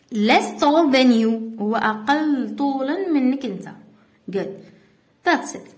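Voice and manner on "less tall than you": slow, spelled-out teacher delivery, word by word; slow dictation. Shown as a demonstration. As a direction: read the rule and example slowly for the class to copy. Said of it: "For example". (إملاء بطيء للتلاميذ)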